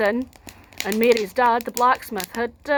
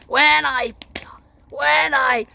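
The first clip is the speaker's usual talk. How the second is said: louder giant stammer; 4 semitones higher, 5 dB louder, slower than usual. Acted. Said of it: "he said".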